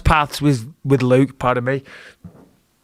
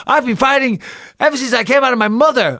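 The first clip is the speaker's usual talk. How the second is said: fired-up boast; 10 semitones higher than usual. Retold or imitated. Fighter quoting his post-fight mic speech, high excited shout. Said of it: "I'm like".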